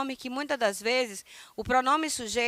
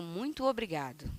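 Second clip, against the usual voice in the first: whispered thanks; 5 semitones lower, 8 dB quieter than usual. Shown as a demonstration. Teacher whispers the translation to the class, unvoiced whisper. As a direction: whisper it, barely voiced.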